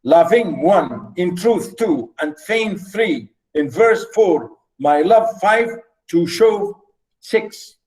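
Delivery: measured, segmented verse reading; teacher tallying the beats; counting out feet. Shown as a demonstration. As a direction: read the verse with a count after each foot. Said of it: "let me read".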